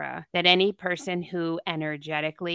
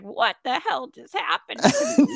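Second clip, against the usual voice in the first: high, louder mock bewilderment; imitating a wrung-out student; 12 semitones higher, 5 dB louder than usual. Student leaving yin class a total mop, mock dazed. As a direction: wail it in comic disbelief, pitched way up. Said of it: "like, a total mop".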